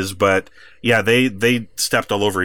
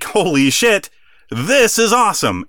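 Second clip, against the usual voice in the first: higher-pitched mock excitement; lightly acted gleeful amazement, pitched up; excited; 8 semitones higher than usual. Opposing tag team seeing the partner walk away, mock excited.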